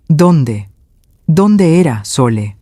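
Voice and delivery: stammering. Acted. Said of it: "tartamudeó Rodrigo".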